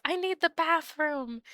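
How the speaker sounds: insist, annoyed at the door; entitled customer impression. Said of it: "banging at the door again and yells".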